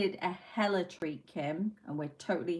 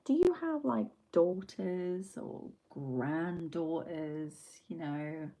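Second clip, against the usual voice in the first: measured and deliberate, slowed right down; cool and unhurried, letting each word land; slow, calm retort; slower than usual. Retold or imitated. To a shouting customer, a slow calm retort. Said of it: "slowly looked at him very calmly and said".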